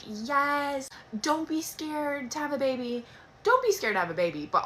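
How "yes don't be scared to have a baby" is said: slow, high, mock-upbeat cheer; a hammed-up pep talk, drawn out; empowering voice. Shown as a demonstration. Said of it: "I want nothing more than to be empowering".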